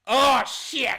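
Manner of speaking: sudden loud, high exclamation; surprised. Real, not acted. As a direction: blurt it out in real shock. Coin toss result.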